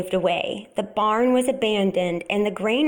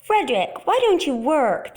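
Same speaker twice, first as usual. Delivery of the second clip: higher, questioning mouse voices; curious mice; 5 semitones higher, 3 dB louder than usual. A narrator's reading. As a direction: ask like little mice.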